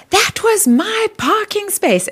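slow, high mock voice of an irate woman; imitating a woman scolding over a parking space; angry woman. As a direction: play the indignant stranger claiming her spot. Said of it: "this woman comes up to me and she goes".

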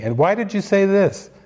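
imitated self-scolding rant; ego ranting. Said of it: "it was just ranting".

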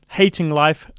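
talking round something in mouth; words blocked by a bite; mouth full. Real, not acted. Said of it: "oh, there's something in my mouth".

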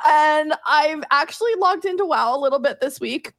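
talking through the hiccups; catching a hiccup mid-sentence. Real, not acted. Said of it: "I've got the hiccups".

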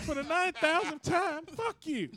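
fed up, snapping back; exasperated. Retold or imitated. Exasperated retort to dad.

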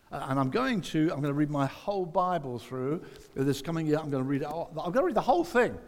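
eager resolution. Retold or imitated. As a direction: pump yourself up till the last line bursts out. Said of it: "we think".

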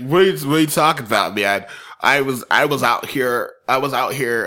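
attempted Canadian accent, drunk guy; lightly done Canadian accent. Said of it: "I'm trying to do a Canadian accent".

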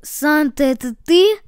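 hopeful question, lifting at the end. Acted. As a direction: ask as if hardly daring to hope. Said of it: "с надеждой произнёс язык". (с надеждой)

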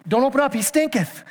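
put-on King James grandeur; mock old English. Preacher hamming up the King James line, mock grand. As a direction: savour stinketh like fancy scripture. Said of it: "Trying to make stank sound very".

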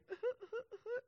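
tiny, very high stuttered whimpers; restrained mock sob. Dad pretending to hide tears from kids, small mock sobs. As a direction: mimic crying in dainty little hiccups. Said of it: "I can't hide it from my kids. I can't be like".

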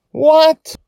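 stunned, wounded disbelief; shocked and hurt. Acted. Joy, shocked and hurt by her dad. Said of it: "Joy sounds both shocked and hurt".

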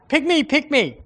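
put-on high, eager childlike plea; eager pick me. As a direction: beg to be chosen, very high. Eager volunteer begging to be chosen.

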